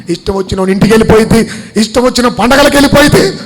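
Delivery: repeated list climbing to a high, forceful finish; mounting pulpit rhetoric; building preaching. Real, not acted. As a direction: start level, push each phrase harder.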